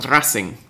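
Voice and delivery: Racing with a rolled R. Real, not acted. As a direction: trill the R in Racing. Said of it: "which I have just rolled the R for".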